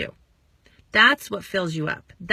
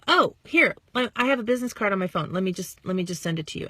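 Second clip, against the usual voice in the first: mock friendly offer; faster than usual. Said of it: "you could say".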